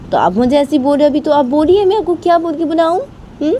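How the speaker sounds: put-on girl Rama pressing grandma for an answer, indignant; indignant girl talking back. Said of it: "तो रामा बोलती".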